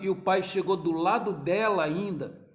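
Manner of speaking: ordinary talk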